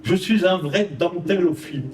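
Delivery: récitation de poème. Acted. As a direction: lecture posée et rythmée d'un poème. Récite son poème avec musique. (poème déclamé doucement sur la musique)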